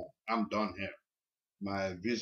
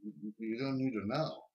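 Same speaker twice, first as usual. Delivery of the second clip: hesitant, soft reply; 7 dB quieter than usual. Retold or imitated. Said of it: "And I'm like".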